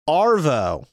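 Aussie slang word, said broadly; Australian accent. Shown as a demonstration. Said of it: "That's afternoon".

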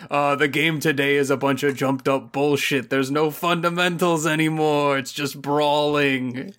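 a hint of an old grumbler ranting about today's game; grumpy boomer voice. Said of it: "he becomes, like, a boomer fantasy".

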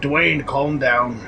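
put-on lightly Scottish-accented goblin. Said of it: "he regains the Scottish accent".

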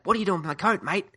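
a quick Australian impression of the line; mock Australian accent. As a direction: echo the actor's Australian attempt. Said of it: "Although the first line's not so bad".

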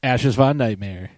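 loud, slow announcer shout; crowd-pumping name reveal; ring announcer name call. Acted. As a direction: stretch the name out like a wrestling intro. Host's dramatic introduction of co-host.

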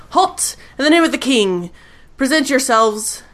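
lightly voiced guard calling halt; guard's challenge. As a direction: command them to stop, formally. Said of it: "He says".

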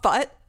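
a short puffed "fut" like a dart gun firing; imitated dart sound. Friend imitating the comic's dart gun sound. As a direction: mimic the tranquilizer dart going off. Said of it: "Well, the sound is fut".

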